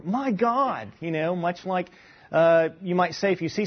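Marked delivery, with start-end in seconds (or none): 0.0-0.9 higher-pitched mock amazement; surprised exclamation. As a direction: play a startled exclamation. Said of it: "he's so surprised that he says".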